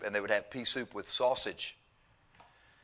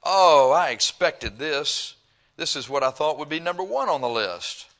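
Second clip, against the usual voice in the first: mock listener; 4 semitones higher, 7 dB louder than usual. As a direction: mimic a smug listener drawing it out. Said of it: "You said".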